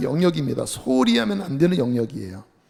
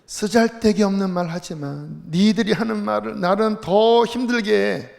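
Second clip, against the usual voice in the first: retort to friends; 4 semitones higher than usual. Acted. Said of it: "이렇게 대답을 했죠".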